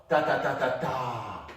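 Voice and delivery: ta syllables slowed and spaced; teacher slowing the rhythm for students; slow rhythm demo. Shown as a demonstration. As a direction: count it out slowly on a finger. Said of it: "Use your finger".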